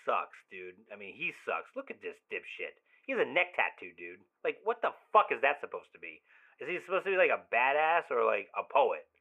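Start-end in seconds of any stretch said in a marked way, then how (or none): 4.5-8.1 exasperated. Acted. Ranting about ex's new boyfriend.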